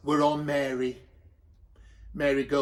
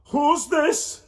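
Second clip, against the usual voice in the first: high, startled question; surprised Joseph; 10 semitones higher, 4 dB louder than usual. A narrator's reading. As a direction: gasp it out in surprise. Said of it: "said Joseph".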